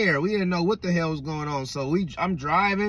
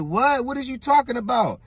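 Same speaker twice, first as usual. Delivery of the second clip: higher-pitched incredulous question; baffled disbelief; 6 semitones higher than usual. Retold or imitated. Coworkers reacting to the late man's news, baffled disbelief. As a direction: retell a startled demand for explanation.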